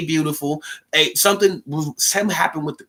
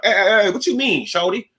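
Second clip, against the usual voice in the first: imitating Southern drawl; 5 semitones higher than usual. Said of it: "They say that shorty real clear".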